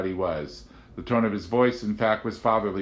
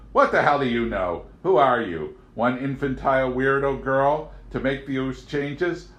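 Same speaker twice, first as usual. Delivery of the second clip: louder, angry outburst; spewed; 5 semitones higher, 4 dB louder than usual. A narrator's reading. Agent spewing anger at Amanda, louder. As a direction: spit out the contempt. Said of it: "Then he spewed".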